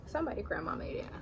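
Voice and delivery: whispered aside; whispering. Acted. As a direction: drop to a secret whisper. Whispered repeat of previous line.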